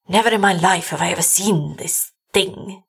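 understated brokenness; a touch of shaken disbelief; broken. A narrator's reading. Doctor confessing he never saw this, mildly broken. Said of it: "he said brokenly".

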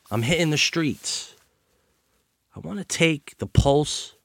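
punchy podcast opener with swooping intonation; scripted show monologue. Acted. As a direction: deliver it in separate phrases with pauses, stressing key words. Reads scripted opening monologue before interview.

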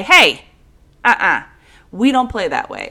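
put-on sharp loud scold to a misbehaving kid; scolding call. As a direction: call out like a stern parent. Scolding other kids at the park.

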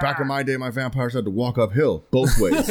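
lightly voiced grumpy old-timer; a hint of a cranky grandpa; old man voice. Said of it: "It sounds like I'm an old man".

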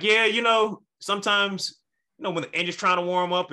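lightly voiced attendant explaining it away; dismissive flight attendant. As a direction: play a high-voiced, placating attendant. Flight attendant brushes off the worry.

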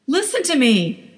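high, mild mock scream. Wife screaming at her driving husband, mild scream. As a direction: demand he listen, a light scream. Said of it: "Trish screamed".

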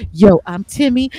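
lightly imitated swaggering intro; Timmy. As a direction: punch the greeting like a rapping show-off. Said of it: "He's the one that's like".

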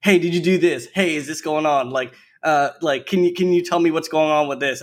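lightly imitated family asking questions; nagging family. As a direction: rattle off their questions. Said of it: "they're just like".

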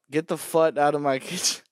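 says fut with a British twist; mock British fut. Shown as a demonstration. Laughing mock British chef. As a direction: get the fut out, in British accent. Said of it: "why do they say "fut".

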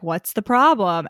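mock deadpan, barely any movement; stone-faced. Host imitating Adam hiding his glee, mildly stone-faced. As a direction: play it lightly stone-faced. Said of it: "completely, like, stone-faced".

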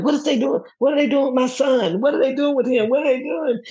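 high, anxious, pleading repeated questions; imitating panicked daughter. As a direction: mimic her frantic worry over the baby. Mother retells daughter's panic.

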